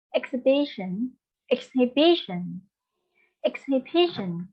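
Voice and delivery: "exhibition" repeated as ex-hi-BI-tion; teacher drilling "exhibition" with the beat on "bi"; third-syllable stress. Shown as a demonstration. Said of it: "on the third syllable".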